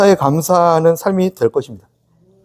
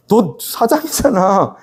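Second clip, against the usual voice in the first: slow gentle reminder; much slower than usual. Retold or imitated. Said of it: "이건희 회장이 있나요".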